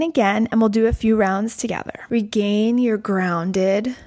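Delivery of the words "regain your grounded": slow, calm meditation voice; guided meditation. Acted. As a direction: guide them gently into the breath. Leads guided breath practice.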